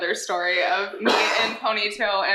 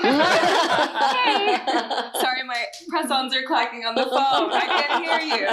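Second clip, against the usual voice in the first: mock phone voice; 3 semitones higher than usual. Mock phone-voice act, laughing.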